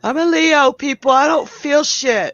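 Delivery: loud and high, laughing at herself; joking bravado. Real, not acted. Medium laughing off her tears to the host, loud and high. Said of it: "I'm not used to all that feeling".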